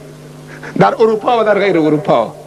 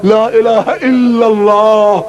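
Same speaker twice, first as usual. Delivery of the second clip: slow recited shahada; slower than usual. Retold or imitated.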